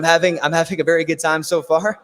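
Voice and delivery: hoarse, worn-out voice; losing his voice from talking; raspy voice. Real, not acted. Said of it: "as you can tell by my raspy voice".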